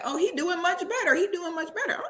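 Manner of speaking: high, light singsong mimicry; high mocking gossip voice; mock cheerful gossip. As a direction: mimic the chatter with a sarcastic lilt. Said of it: "they're like".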